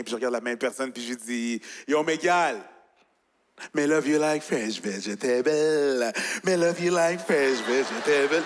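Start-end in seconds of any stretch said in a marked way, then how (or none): 1.9-8.4 drawn-out Jamaican-accented sweet talk. Shown as a demonstration. Chatting up someone in the street, playful Jamaican accent. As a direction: lay on a slow Jamaican accent. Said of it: "si je prends mon accent jamaïcain".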